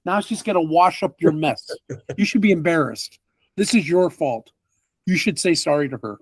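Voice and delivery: man berates the party for making her work; scolding rant. Acted. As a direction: shame them like a stern parent. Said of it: "He goes".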